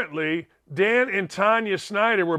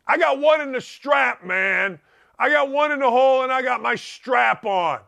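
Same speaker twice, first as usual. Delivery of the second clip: mock gangster; 5 semitones higher than usual. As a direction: shout it like a mock tough guy flexing. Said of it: "Yeah, I'm gangster".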